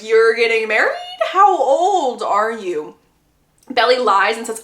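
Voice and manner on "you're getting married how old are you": incredulous, stretched-out question; flabbergasted. Retold or imitated. Girl reacting to Belly getting married, flabbergasted. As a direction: imitate someone stunned by the news. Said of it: "The girl is flabbergasted".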